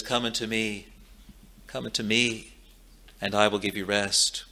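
softly, as a tender call to the weary; gentle quiet invitation. Acted. Preacher voicing Jesus calling weary sinners, softly and tenderly. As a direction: hush the voice and coax them in.

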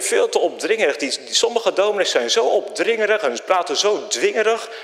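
fed-up churchgoer grumbling; annoyed. Retold or imitated. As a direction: wave off the pushy preachers. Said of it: "dan denk je".

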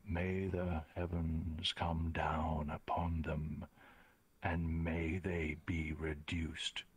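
slow, measured storyteller's pronouncement; solemn narration. Acted. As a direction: intone it slowly like a grave curse. Game master intones a doom.

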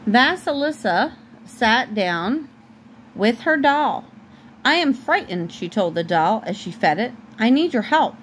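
animated read-aloud, lifting the characters' lines; story narration. A narrator's reading. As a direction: read to a child, lightly acting the quotes.

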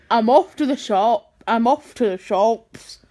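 low, hesitant fake Jamaican; attempted Jamaican accent. Asking how that Jamaican sounds, low attempted accent.

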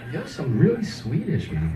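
hammed-up Swedish lilt; Swedish accent. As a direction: insist in a mock Swedish accent with big pitch swoops. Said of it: "stayed in character as the Swedish guy".

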